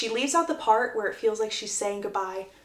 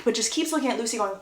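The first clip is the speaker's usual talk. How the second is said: usual speaking voice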